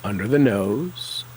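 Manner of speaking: ordinary delivery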